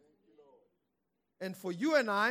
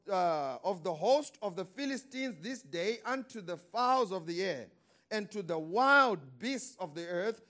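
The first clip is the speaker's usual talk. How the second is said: biblical warrior declaration. Acted. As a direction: thunder it like David. Preaching David's declaration.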